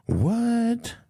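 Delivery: stunned disbelief at the headline; shocked what. Real, not acted. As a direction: react as if you can't believe it.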